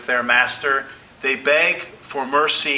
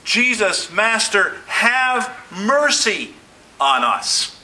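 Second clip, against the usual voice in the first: drawn-out, raised plea for mercy; a preacher voicing lepers crying out for mercy; pleading cry; 5 semitones higher, slower than usual. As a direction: beg slowly, voice lifted. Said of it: "the lepers cry out".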